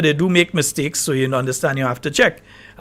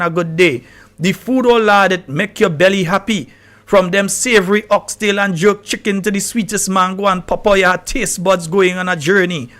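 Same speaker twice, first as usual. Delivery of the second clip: reading aloud; 2 semitones higher than usual. Shown as a demonstration. Host reading the ChatGPT Grenada essay aloud to listeners. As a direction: read the patois essay out with some relish. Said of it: "I finished the reading part".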